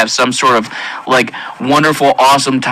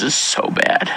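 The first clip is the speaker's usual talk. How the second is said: breathy, broken whisper through tears; barely able to say it; tearful whisper; 6 dB quieter, slower than usual. Real, not acted. Still shaken by the memory, softer tearful whisper. Overcome recalling hell.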